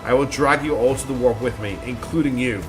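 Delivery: mildly scornful, theatrical accusation; lightly voiced vengeful mistress. Mistress vowing retribution on her heir, lightly scornful. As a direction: pronounce judgement with a touch of grand contempt.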